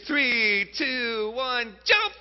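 slow, stretched countdown to a jump; drawn-out countdown. Retold or imitated. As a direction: count down slowly like a child about to leap. Acting out the toddler's countdown.

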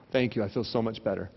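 low, hushed thanks; mock comforted. Hospital patient thanking visitor for gossip, mock comforted. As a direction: pretend to be soothed, very softly.

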